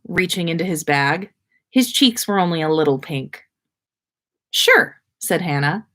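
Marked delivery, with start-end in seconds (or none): 4.5-5.0 very high, bright "Sure"; delighted yes. A narrator's reading. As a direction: squeak it out with delight. Delighted reply.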